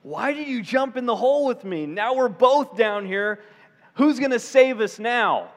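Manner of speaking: mock-dismayed questioning of a would-be rescuer; exasperated complaint. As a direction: protest to the friend who jumped in. Acted complaint to friend who jumped.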